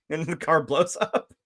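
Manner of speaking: ordinary delivery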